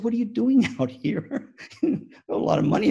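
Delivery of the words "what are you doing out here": high-pitched laughing disbelief; astonished. Retold or imitated. Speaker asking the astronaut why he came, astonished. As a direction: demand it in comic amazement.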